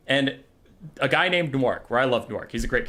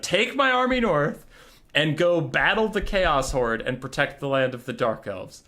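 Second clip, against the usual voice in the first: mock grand command; 2 semitones higher than usual. Malekith repeats command.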